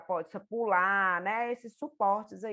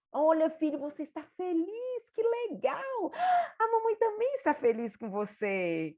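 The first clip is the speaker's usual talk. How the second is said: higher, delighted praise rising to a happy cry; joyful validation; 8 semitones higher than usual. Shown as a demonstration. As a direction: celebrate with him. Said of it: "validar isso aí na criança". (mãe celebrando a alegria do filho)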